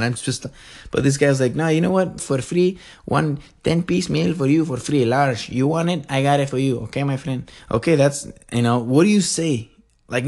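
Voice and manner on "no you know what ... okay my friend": mock obliging employee, pitched up; accommodating employee. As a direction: placate the customer in a put-on voice. Acts out same accommodating employee again.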